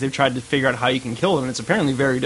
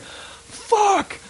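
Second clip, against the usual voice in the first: very high, drawn-out mock wail; theatrical high-pitched howl of protest; hammed-up pained outcry; slower than usual. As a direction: wail in exaggerated agony, far above your usual pitch. Acting out burned man's outcry.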